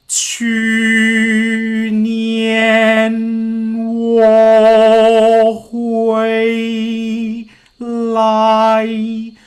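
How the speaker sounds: 去年我回来 held on a single level note; on one pitch. Shown as a demonstration. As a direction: chant 去年 我回 来 flat on one pitch. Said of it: "pick a tone".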